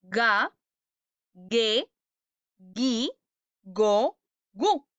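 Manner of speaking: "Ga, ge, gi, go, gu" with a hard g in every syllable, spaced out; mistaken hard G. Shown as a demonstration. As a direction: demonstrate the wrong reading: "ge, gi" said like "gue, gui". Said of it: "Dirían que se pronuncian de la siguiente manera".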